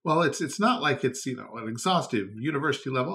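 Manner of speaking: lightly mocking complaint; whiny complainer. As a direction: poke fun at a petty gripe. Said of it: "people complain".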